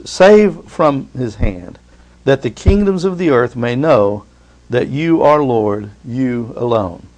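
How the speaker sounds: very slow, drawn-out plea; solemn prayer. Acted. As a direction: stretch each word of the prayer.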